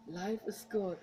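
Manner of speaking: life is good, said slightly dry and flat; a touch of sarcasm in the English; mildly sarcastic. Shown as a demonstration. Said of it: "it sounds sarcastic".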